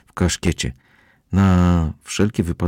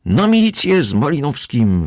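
crowd calling; 9 semitones higher, 3 dB louder than usual. A narrator's reading. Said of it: "wołali zebrani ludzie".

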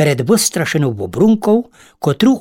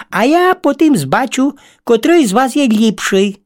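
higher, coaxing little-bug voice; flattering ladybird; 5 semitones higher than usual. Acted. Ladybird sets the spiders a web contest, coaxing. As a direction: sweet-talk the spiders to win time.

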